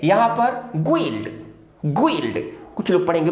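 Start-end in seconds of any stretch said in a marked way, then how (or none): none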